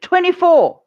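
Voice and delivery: high, loud shouted number; a monk blurting it out, loud and high; retold shout. Monk calls out a joke number to the hall, high shout. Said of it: "stood up and shouted".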